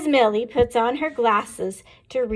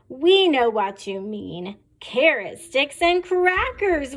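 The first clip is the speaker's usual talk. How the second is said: put-on mild kids' yell; 2 semitones higher than usual. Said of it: "we yell".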